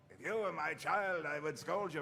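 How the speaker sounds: lightly voiced stern father figure; a touch of in-character reproach; scolding Reinhardt. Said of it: "he's like".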